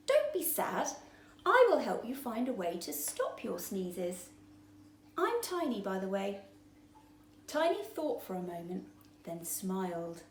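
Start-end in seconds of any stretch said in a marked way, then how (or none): 0.1-6.4 lightly voiced kind fish; friendly little fish. Tiny comforts Sneezy.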